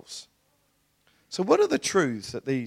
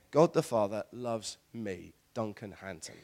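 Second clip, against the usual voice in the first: understated personal affirmation; quiet declaration; 5 semitones lower, 6 dB quieter than usual. Shown as a demonstration. Preacher models a personal declaration.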